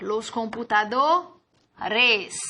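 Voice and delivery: los computadores said slowly; slow model word. Shown as a demonstration. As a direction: stretch out computadores. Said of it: "El computador". ("computadores" dicho despacio)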